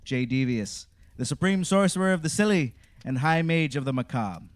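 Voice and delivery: booming showman wizard welcome; grand, spooky horror host greeting. Acted. Theatrical podcast intro as wizard.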